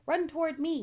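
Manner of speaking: loud, high gander yell. A narrator's reading. Gander yelling to Wilbur, loud and high. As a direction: bellow it across the barnyard. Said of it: "yelled the gander".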